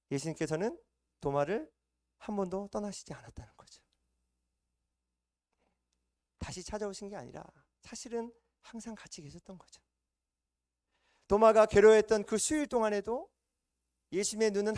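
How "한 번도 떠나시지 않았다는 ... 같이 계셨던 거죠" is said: hushed whisper. Real, not acted. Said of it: "preacher drops to a whisper".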